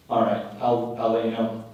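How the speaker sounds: soft, slowing, almost whispered sultry line; lightly voiced wife. A hint of the wife purring her turn-on to husband. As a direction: breathe it out like a seductive confession. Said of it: "So she says".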